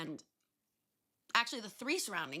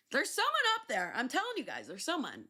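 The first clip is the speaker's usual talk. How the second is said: put-on drunken insistence; 6 semitones higher, faster than usual. Drunk speaker insisting to friends.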